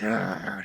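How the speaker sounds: low mock-grumpy growl; grumpy groan. Whole office answering a cheery morning greeting, grumpy groan. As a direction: grumble wordlessly like an office before coffee.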